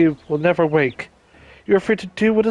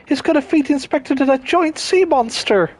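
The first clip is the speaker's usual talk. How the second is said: alarmed; 9 semitones higher than usual. Acted. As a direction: shout it in sudden panic. Alarmed reaction in cutscene.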